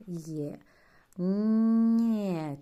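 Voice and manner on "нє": Нє raised and loud with a soft н; soft palatal н before є. Shown as a demonstration. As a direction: stress the softness of н in Нє. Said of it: "Чуємо м'якість".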